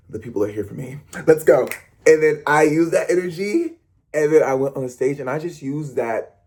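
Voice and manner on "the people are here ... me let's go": ordinary delivery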